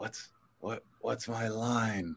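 put-on talking through teeth. Recounting an actor asking for his line onstage, retold through his teeth. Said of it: "through his teeth".

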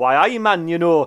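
broad Newcastle accent with Geordie lilt. Explaining which lines to avoid when reading in an accent; Newcastle accent. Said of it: "I'm doing a Newcastle accent".

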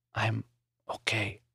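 faint, very quiet, barely audible half-whisper. Reading a scene where a sick man reassures a friend: half-whispering. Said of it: "Maury whispered".

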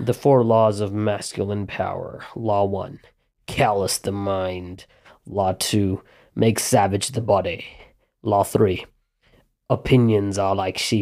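put-on British accent. Reading aloud a list a brother just sent, in a british accent. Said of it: "I don't know why I changed to a British accent".

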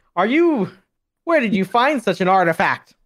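shocked, high, loud. Voicing Tumbleweed as he questions the party about the blade: aghast. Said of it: "Tumbleweed is like aghast".

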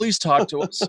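imitated pleading tone. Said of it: "We're like".

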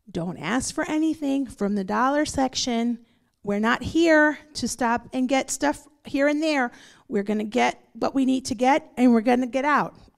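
usual speaking voice

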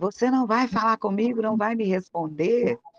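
high-pitched, insistent, hounding yell. Retelling a neighbour's outburst in the shop: imitating someone yelling. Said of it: "E gritava".

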